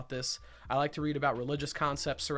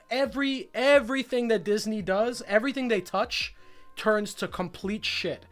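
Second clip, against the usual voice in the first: heated rant; 4 semitones higher than usual. Real, not acted. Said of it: "And I'm getting emotional here".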